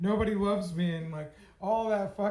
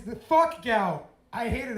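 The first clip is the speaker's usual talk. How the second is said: angry curse; 4 semitones higher, 7 dB louder than usual. Real, not acted. Cursing his gout.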